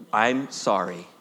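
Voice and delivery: low, sincere confession; humble apology for the congregation to echo; repeated apology. Shown as a demonstration. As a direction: say it as a heartfelt apology. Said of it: "would you repeat those words after me".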